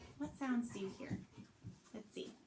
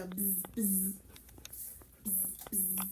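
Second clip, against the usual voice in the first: phone buzz imitation; 4 semitones lower, slower than usual. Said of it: "I heard my phone go".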